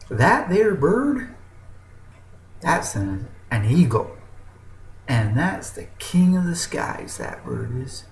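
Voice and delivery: a hint of a know-it-all old chicken; chicken explaining. Chicken tells the eagle about the king of the skies, folksy. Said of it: "And he goes".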